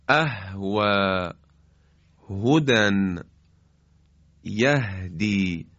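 the ه in اهوى, هدى and یهدی breathed soft and light; gentle, unforced ha. Shown as a demonstration. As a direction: let each ه flow out gently. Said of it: "این باید نرم ادا بشه".

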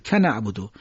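که نعبدو run together as kana'budu; joined syllables. Shown as a demonstration. Teacher demonstrating the join to listeners, linked syllables. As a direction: glue short ka onto نعبدو. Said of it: "که رو با نعبدو بگید".

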